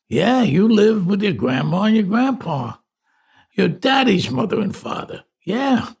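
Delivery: high, animated voice of a doting relative; reminiscing aunts. Retold or imitated. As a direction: coo over the nephew's baby days, high and lively. Aunts reminisce to their grown nephew.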